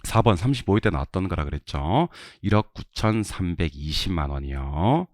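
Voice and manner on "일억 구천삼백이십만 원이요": slow drill reading. Shown as a demonstration. Teacher models amount-reading drill.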